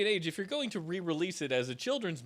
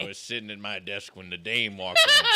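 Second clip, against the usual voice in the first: noir detective; 4 semitones lower, 7 dB louder than usual. Acted. Noir detective bit about the dame.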